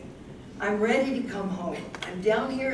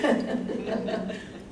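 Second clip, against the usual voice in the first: light unvoiced chuckle; 3 semitones higher than usual. Real, not acted. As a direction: laugh gently at his joke. Laughing at the kiss joke.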